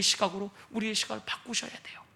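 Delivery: quiet repeated exhortation; hushed urging. Real, not acted. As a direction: let it fall to a hush.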